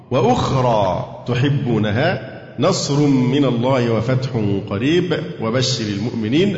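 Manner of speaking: slow, measured Quranic recitation. Acted. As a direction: recite the verse slowly and carefully. Teacher recites the verse. (تلاوة قرآنية متأنية)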